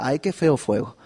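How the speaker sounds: laughing mock complaint; mock grumbling. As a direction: poke fun at the whiners. Mocking the grumbling people. (queja burlona entre risas)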